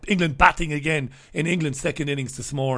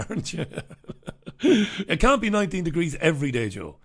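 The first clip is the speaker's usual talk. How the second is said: laughing tease; 2 semitones higher than usual. Real, not acted. Teasing a viewer, laughing.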